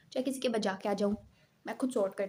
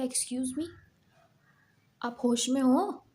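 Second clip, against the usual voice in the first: indignant retort; 3 semitones higher, 4 dB louder, much slower than usual. Retold or imitated. Arguing back at the teacher.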